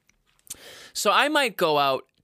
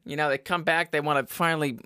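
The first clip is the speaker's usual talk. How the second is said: ordinary talk, nothing marked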